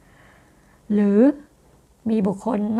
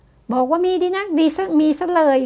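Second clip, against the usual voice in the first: higher, slow, mocking sarcastic jab; sarcastic retort; 6 semitones higher than usual. Shown as a demonstration. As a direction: drag it out like a sulking partner being spiteful. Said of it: "มันประชดแบบนี้". (ประชดประชัน เสียงสูง พูดช้าๆ)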